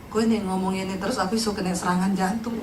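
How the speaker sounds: jauh lebih rendah dan pelan; meniru suami mengeluh. Retold or imitated. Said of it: "dia datang". (suami mengeluh pada istri, ditiru rendah dan pelan)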